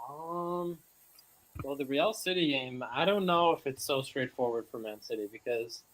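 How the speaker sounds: distorted robotic mic sound; glitchy robotic voice over a bad mic. Real, not acted. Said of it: "You sound robotic".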